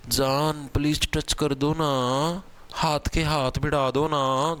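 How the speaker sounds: slow, pleading lover's coo; joking impression of a lover begging; mock lover's plea. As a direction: tease the class with a lovesick plea. Teacher jokes a lover's plea.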